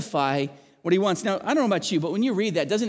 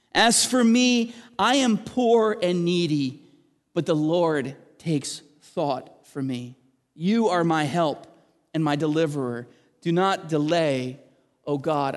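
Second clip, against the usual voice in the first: slow declamation from a raised opening; prayerful psalm reading. Acted. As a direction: start strong, then plead slowly and solemnly. Reads a psalm aloud to congregation.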